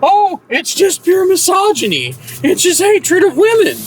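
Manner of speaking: high, sneering parody voice; mocking feminist voice. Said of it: "the usual nonsense from internet feminists".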